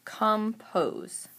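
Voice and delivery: compose pulled apart into com and pose; split by syllable. Shown as a demonstration. Teacher sorting words by syllable, compose split in two. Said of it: "break the word into chunks".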